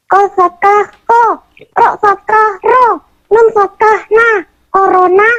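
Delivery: mengeja huruf pelan ala anak ngaji; membaca iqro. Acted. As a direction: mengeja iqro jilid satu. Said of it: "Oh, jilid satu". (anak mengeja huruf hijaiyah pelan)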